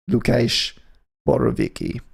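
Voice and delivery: The name said in a hammed-up Polish accent, Lu-KAYSH; mock Polish accent. Shown as a demonstration. DJ naming the Polish guitarist, in a jokey Polish accent. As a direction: lean into a cheesy Polish accent on the name. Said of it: "With a slightly offensive accent".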